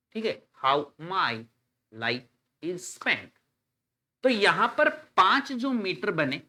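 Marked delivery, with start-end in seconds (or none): 0.7-3.3 "how my light is spent" in slow alternating iambic beats; zigzag stress. Shown as a demonstration. Teacher demonstrating zigzag sound, "how my light is spent" in iambic stress. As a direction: seesaw through "how my light is spent" with pauses between beats. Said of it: "ये zigzag sound बोला जाता है".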